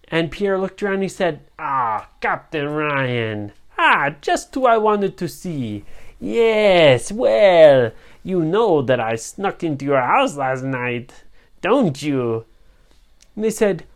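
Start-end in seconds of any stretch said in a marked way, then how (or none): 1.6-12.5 gloating pirate villain. Acted.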